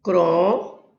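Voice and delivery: CRO drawn out in "Cromo", then mo apart; teacher sounding out "Cromo" by syllables; syllable-by-syllable demo. Shown as a demonstration. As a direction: split "Cromo" in two, holding the CRO. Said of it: "é a sílaba forte".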